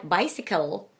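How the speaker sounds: bicycle with a weak "kul" at the end; schwa ending. Shown as a demonstration. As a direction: let the last syllable of bicycle relax. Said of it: "It is a schwa".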